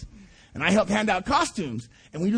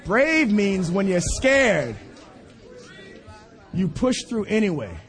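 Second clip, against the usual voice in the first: slowed, weighty restatement; slow emphatic repeat; slower than usual. Real, not acted. Preacher drives home the son's lesson to the congregation slowly. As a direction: give each word weight. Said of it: "preacher repeats slowly".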